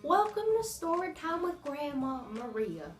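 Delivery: lightly voiced grandma. Grandma welcoming viewers to story time, lightly sweet. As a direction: play a gentle old storyteller grandma.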